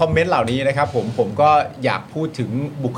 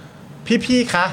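imitating monotone colleague. Host imitates Namning's flat pitch-meeting report, mildly monotone. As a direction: flatten it out like a deadpan newsreader. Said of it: "น้ำนิ่งจะเป็นคนที่เสียงโมโนโทนมาก".

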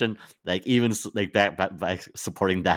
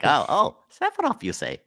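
mock Scottish brogue, higher; Scottish accent; 8 semitones higher than usual. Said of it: "With his great Scot accent".

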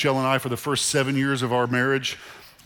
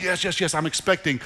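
amped-up yes; 4 semitones higher than usual. Retold or imitated. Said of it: "you're just amped up".

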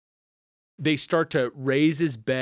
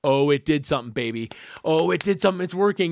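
lively, mildly raised exclamations; excited; 3 dB louder, faster than usual. Retold or imitated. Visitor watching the treatment work, excited. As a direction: retell it with bubbling excitement. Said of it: "I'm so excited".

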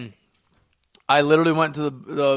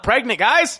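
emphatic exclaim; 9 semitones higher, 5 dB louder, slower than usual. Real, not acted. Telling friends she's not pregnant.

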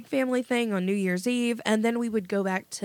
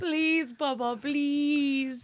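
high, slow whiny plea; begging; 6 semitones higher, much slower than usual. Retold or imitated. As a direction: drag out the begging like a kid. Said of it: "I'm like".

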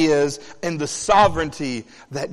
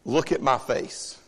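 stern parent. Retold or imitated. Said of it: "we have to look at her and go".

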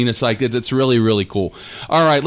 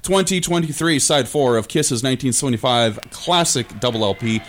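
brassy voice. Acted. Radio host station ID.

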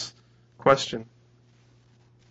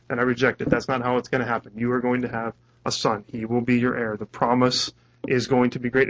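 gently reassuring, slightly lowered voice; kindly. Retold or imitated. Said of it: "God comes very kindly to Abram".

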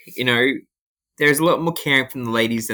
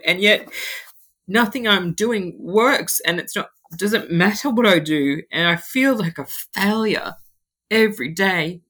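retelling his breakdown with a raised, tearful voice; tearful plea; 3 semitones higher than usual. Retold or imitated. To the road worker, reliving his despair, tearful and raised. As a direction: plead through tears, a bit higher. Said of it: "And I just bawled my eyes out".

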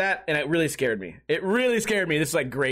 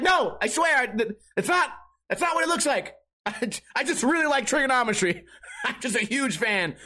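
higher, embarrassed, flustered protest; flustered denial; 5 semitones higher than usual. Retold or imitated. Embarrassed boy denies it to classmates, flustered and higher. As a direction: scramble to explain yourself. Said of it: "I'm like".

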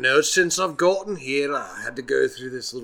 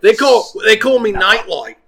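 boastful declaration; 8 semitones higher, 10 dB louder than usual. Acted. Hero announces his name.

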